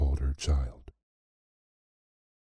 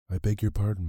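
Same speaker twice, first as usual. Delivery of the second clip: put-on higher, meek girl's apology; timid young girl; 6 semitones higher, faster than usual. A narrator's reading. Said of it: "said the poor girl".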